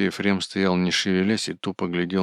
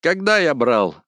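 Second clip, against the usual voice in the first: much higher, louder squealing shout; high shrieking yell; 11 semitones higher, 6 dB louder, much slower than usual. A narrator's reading. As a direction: shriek it in a piercing pitch. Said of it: "закричал высоким визжащим голосом".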